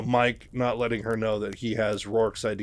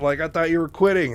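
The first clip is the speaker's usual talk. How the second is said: surprised objection; 6 semitones higher, 7 dB louder than usual. Retold or imitated. Rourke surprised at the request.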